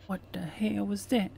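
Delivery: imitating an eerie whisper; whispered imitation. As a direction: echo the game's creepy whisper. Echoes game's whisper line.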